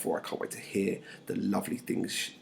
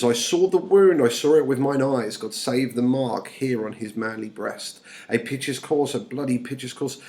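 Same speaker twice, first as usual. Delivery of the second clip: high, loud declaimed opening; theatrical verse reading, easing after the outburst; distraught nurse; 4 semitones higher, 6 dB louder than usual. Acted. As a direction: act the nurse reporting a horror. Reads the nurse's account aloud.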